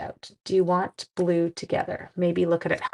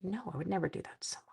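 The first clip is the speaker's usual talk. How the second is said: mock innocent; 11 dB quieter, faster than usual. Sarcastic denial aside.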